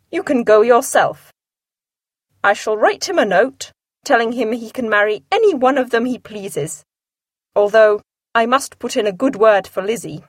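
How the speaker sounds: a lightly voiced dry husband; Mr Bennet teasing. Husband teasing his wife, lightly voiced and dry. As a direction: tease her without raising a fuss.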